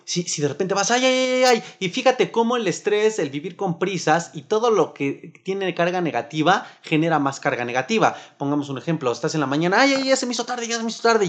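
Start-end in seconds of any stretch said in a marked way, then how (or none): 0.9-1.6 high-pitched fretful ay ay ay; mock panic of someone running late; stressed groan. Acting out stressed rushing person. 9.8-11.3 high, flustered mock complaint; hurried fretting. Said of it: "ya estás enojado".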